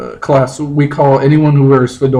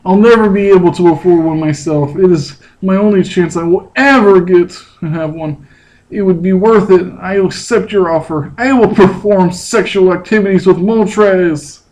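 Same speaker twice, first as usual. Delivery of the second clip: Justin role; 4 semitones higher than usual. Acted. Reading Justin's part in play.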